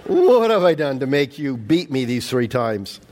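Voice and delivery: lightly voiced donkey; donkey talk. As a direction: speak for the talking donkey. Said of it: "I don't know how you do, like, donkey talk".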